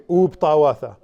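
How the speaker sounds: "U uptawatha" 清楚念，u 单独发出; model phrase. Shown as a demonstration. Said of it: "everyone say".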